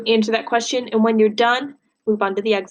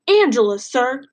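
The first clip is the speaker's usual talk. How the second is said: a sharp, louder cry of the name; boy's angry outburst; 4 dB louder than usual. Acted. Bud snaps his mother's name at Herman. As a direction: blurt the name out in anger. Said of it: "I screamed at him".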